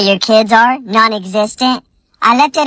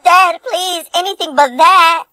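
mock pleading; 5 semitones higher than usual. Fake pleading for show.

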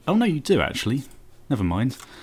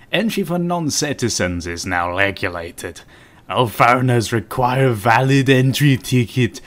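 put-on rubbish Russian accent; 4 dB louder than usual. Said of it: "rubbish Russian accent".

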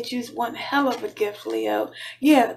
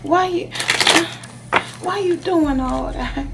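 halting, coaxing plea to a lover; wheedling, with long pauses; acted pleading; 3 semitones higher than usual. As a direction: plead in fits and starts.

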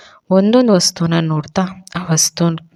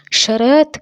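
calling out; 8 semitones higher, much slower than usual. A narrator's reading. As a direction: shout his name to fetch him. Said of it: "ಅಂತ ಕೂಗಿದ್ಲು".

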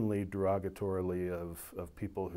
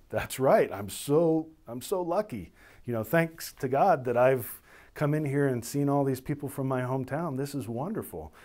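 higher, mock-thrilled gushing; pretend delight; 4 semitones higher, 4 dB louder than usual. Officer pretending to share the minister's hometown, mock delight. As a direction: lay on the gratitude, playfully overdone. Playing a thrilled fellow countryman.

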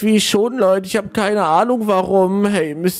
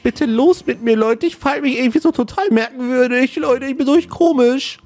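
komische Stimme; 4 semitones higher than usual. Acted. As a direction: voice creeping higher, puzzled. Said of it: "was war denn grad bitte mit meiner Stimme". (seltsam erhöhte Stimme)

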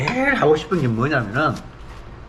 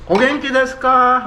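Japanese greeting; 11 semitones higher, 4 dB louder, slower than usual. Retold or imitated.

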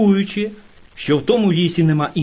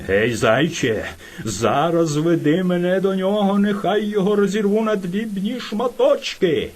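furious bear; 4 semitones higher than usual. Acted. Enraged bear orders the hare.

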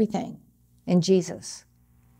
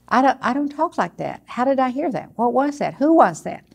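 higher-pitched, mock-startled questioning; puzzled surprise; 4 semitones higher than usual. Believer hearing a voice inside, acted puzzled surprise. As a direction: question yourself, baffled by what you heard. Acts startled hearer of inner voice.

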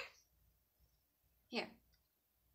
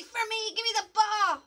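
high singsong model phrase; modelling for toddler; 10 semitones higher than usual. Shown as a demonstration. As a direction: model the words brightly for a child.

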